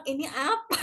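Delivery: amused bewilderment. Retold or imitated. Student recalling confusion over a strange word, laughing in mock bewilderment. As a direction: retell your bafflement through a laugh. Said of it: "Sampai saya bingung gitu kan".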